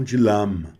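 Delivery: dilama with the a sound instead of e; wrong dilama. Shown as a demonstration. Teacher warning students against dilama. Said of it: "E não dilama".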